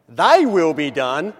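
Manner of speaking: Thy stressed, slow and bold, rising; Thy punched, will be done rising. Shown as a demonstration. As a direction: lean on Thy like a rallying call. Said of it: "accent the first word".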